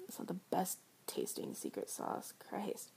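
whispering. Acted. Disgusted aside.

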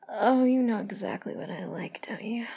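breathy, voiced murmur of approval; aroused purr. Lover approving of a partner's touch, aroused purr. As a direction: savor it with a voiced opening moan. First take, voiced, before whispered repeat.

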